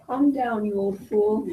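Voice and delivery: laughing while scolding; old couple teasing. Acted. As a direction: scold your husband with a giggle. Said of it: "You be Lady Montague".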